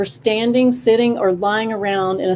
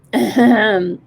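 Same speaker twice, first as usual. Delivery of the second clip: murmured ahem; 4 dB louder than usual. A narrator's reading. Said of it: "Snake murmured".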